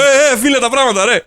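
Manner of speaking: mild mock call to a beach thief. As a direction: call after him to drop your things.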